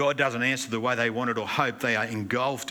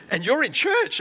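much higher, louder incredulous question; amazed question; 10 dB louder than usual. Retold or imitated. Pastor asks the twin sister in amazement, much higher and louder. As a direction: shoot up in disbelief. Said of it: "And I said".

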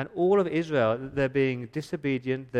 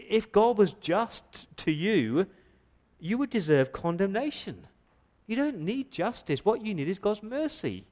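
impassioned preaching; 6 semitones higher than usual. Real, not acted. Preaching climax on mercy.

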